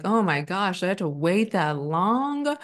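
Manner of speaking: mock dismay, last word stretched and rising; retold disbelief. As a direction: act out exasperated disbelief, drawing out LONG. Acting out her reaction to delay.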